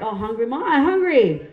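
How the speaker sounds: put-on hungry kid whining, rising loud on hungry; whiny kid. Kids whining to their mom for food, mock whine. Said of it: "We're like".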